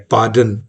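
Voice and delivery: "पार्डन" alone, followed by a stop; changed comma. Shown as a demonstration. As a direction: set "पार्डन" apart as its own command. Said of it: "सिर्फ comma change किया".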